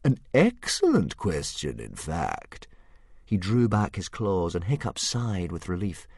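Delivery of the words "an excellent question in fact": surprised dragon. Acted. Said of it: "said the dragon in surprise".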